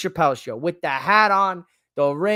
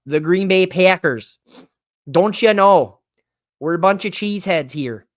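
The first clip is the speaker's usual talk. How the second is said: hammed-up Midwest Green Bay accent, louder; 6 dB louder than usual. Host boasting about the Packers in a mock Green Bay accent. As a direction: play a proud Wisconsin local with a put-on Green Bay accent. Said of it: "I love doing my Midwest, uh, Green Bay accent".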